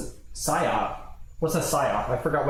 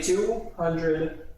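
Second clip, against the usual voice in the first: slow drawn-out reading; 4 semitones higher, much slower than usual. Real, not acted. Reading recipe slowly aloud.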